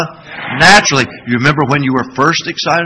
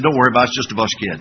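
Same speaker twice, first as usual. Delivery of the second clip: unbothered; 4 semitones lower, 3 dB quieter, much faster than usual. Retold or imitated. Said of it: "didn't even break stride".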